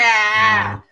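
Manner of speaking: "Pack" called out loud with a broad Boston "pahk"; Boston accent. Retold or imitated. Friends trying Boston accents, loud mock Boston. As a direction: shout "Pack" Boston-style, no R. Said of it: "So, the Boston accent".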